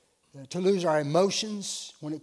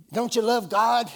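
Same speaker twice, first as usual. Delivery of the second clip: imitating youths laying on guilt, higher and louder; mock-wounded challenge, pitched up; guilt-tripping; 6 semitones higher, 7 dB louder than usual. Youths pressing their leader to swim, mock guilt trip. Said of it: "they put the guilt trip on me".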